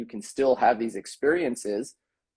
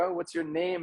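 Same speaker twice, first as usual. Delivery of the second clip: higher, softer imitation of an approaching stranger; chatty stranger; 7 semitones higher, 7 dB quieter than usual. Stranger asking a person on the street, chatty mock voice. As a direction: play the passerby in a raised pitch.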